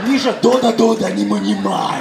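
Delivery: mock Russian mother's scolding gibberish; אמא רוסייה כועסת. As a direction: imitate a stern Russian mum telling off her son. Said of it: "אבל יש שם כעס". (חיקוי אמא רוסייה נוזפת)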